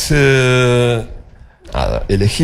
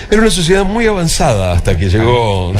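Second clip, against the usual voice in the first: laughing; 5 semitones higher than usual. Real, not acted. Joking about 1982 cellphones.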